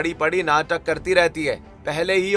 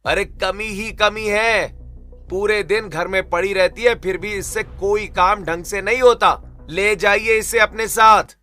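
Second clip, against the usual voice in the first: high-pitched, raised-voice berating; rude angry tirade; 4 semitones higher, 4 dB louder than usual. Acted. Husband ordering in-laws to take daughter away, furious. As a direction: rant louder to a final order. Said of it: "बदतमीजी शुरू कर देता है".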